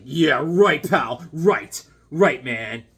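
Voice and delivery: lightly voiced scoffing werewolf; sarcastic werewolf. Werewolf to the barbarian taming him, mock sarcastic scoff. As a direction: scoff as a werewolf refusing to be tamed. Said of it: "The werewolf's like".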